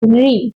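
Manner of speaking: री with the tongue where टा is made; carefully pronounced retroflex री. Shown as a demonstration. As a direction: demonstrate री, tongue tip up on the palate. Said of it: "उसी जगह पर अपनी जीभ को रख के".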